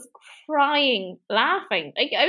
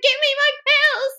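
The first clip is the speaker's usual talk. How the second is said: much higher, hammed-up pleading; mock desperate demand; 13 semitones higher, 4 dB louder than usual. Jessie demands pills from Zach, mock desperation. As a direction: imitate a frantic addict demanding.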